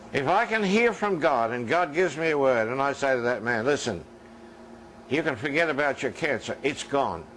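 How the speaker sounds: ordinary delivery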